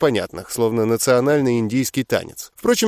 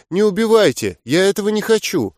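crying plea; 6 semitones higher than usual. A narrator's reading. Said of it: "донеслось плачущее".

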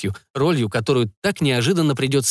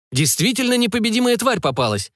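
enthusiastic; 9 semitones higher than usual. A narrator's reading. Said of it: "воодушевлённо делился впечатлениями".

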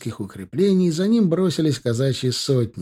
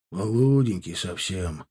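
sighing sadly; 4 semitones lower, 3 dB quieter than usual. A narrator's reading. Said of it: "проговорил со вздохом унтер".

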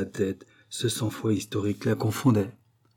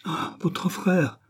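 slow, raised queenly protest; exclamation; 9 semitones higher, much slower than usual. A narrator's reading. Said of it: "s'écria Marie-Antoinette".

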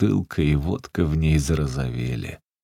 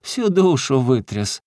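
laughing through tears; 7 semitones higher, 4 dB louder than usual. Acted. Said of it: "уже смеясь сквозь слёзы".

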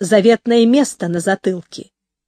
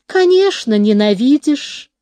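purring. Acted. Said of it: "промурлыкала Мэкси".

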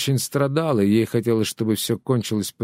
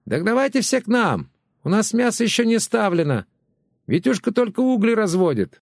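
shouting neighbour; 10 semitones higher than usual. Acted. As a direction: yell the question across the fence. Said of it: "кричала Валюшка".

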